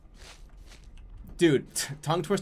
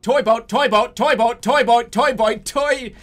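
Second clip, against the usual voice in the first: loud, higher-pitched rapid repetition; forceful tongue-twister attempt; 6 semitones higher, 8 dB louder than usual. Real, not acted. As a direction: belt out the repetitions, high and hard.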